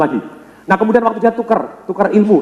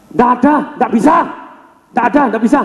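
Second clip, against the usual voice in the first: higher, repeated flat denial; stubborn refusal; 5 semitones higher than usual. Retold or imitated. Champion refusing Bruce Lee, mock stubborn. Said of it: "Si juara dunia gitu".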